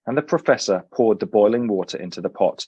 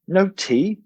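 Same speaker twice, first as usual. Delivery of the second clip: higher, puzzled British professor; baffled professor; 8 semitones higher than usual. A narrator's reading. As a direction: sound genuinely baffled. Professor voice in story.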